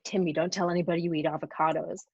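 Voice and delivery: mildly patronizing retold quote; lightly mocked condescension, kept low-key; condescending. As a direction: imitate someone talking down to a grown man. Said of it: "as condescending, he's like".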